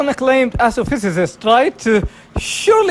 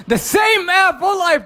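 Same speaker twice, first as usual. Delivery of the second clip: gloating taunt; 6 semitones higher than usual. Acted. Taunting a gagged rival.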